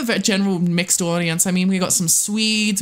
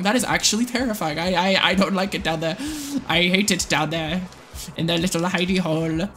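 ordinary delivery

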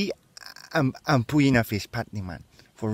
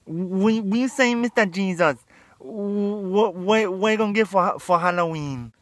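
much higher eager question; excited question; 7 semitones higher than usual. Acted. Guru eagerly asks Jesus about Halloween. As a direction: pester him excitedly.

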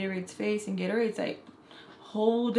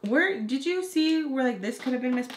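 raised, higher-pitched call; a little bit loud; 5 semitones higher, 4 dB louder than usual. Retold or imitated. Makeup artist asking around about a missing item, slightly louder. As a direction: lift the voice so others nearby hear. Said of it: "start talking a little bit loud".

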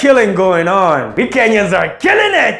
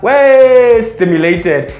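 emphatic shout; 3 dB louder, much slower than usual. Pretend. Emphatic punchline.

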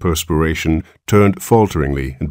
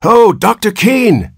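high, slow drawn-out call; anxious father calls after the departing doctor; 6 dB louder, slower than usual. A narrator's reading. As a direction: stretch it out to catch his attention. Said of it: "he called".

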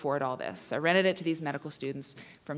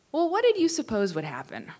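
poem reading. Acted. Reads a poem.

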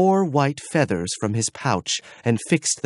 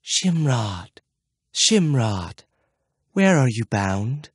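soft echoing dream voice; slower than usual. Acted. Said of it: "a soft voice called his name".

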